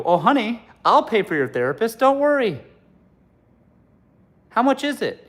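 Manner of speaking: high, loud mock sweetness; hammed-up caring boyfriend; doting boyfriend. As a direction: coo at her like a doting man.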